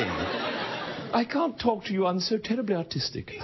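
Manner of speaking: lightly voiced effete, distant author; a touch of a drawn-out, aloof artist; mildly affected, slow aloof artist. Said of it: "effete and distant manner".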